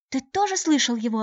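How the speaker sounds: light up with hope; delighted. A narrator's reading. The girl, glad someone heard the bell, delighted. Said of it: "обрадовалась девушка".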